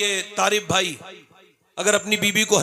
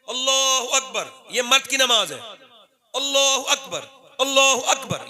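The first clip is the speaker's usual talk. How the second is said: demonstrating prayer call; 4 semitones higher than usual. Shown as a demonstration. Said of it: "समझाने के लिए कह रहा हूं".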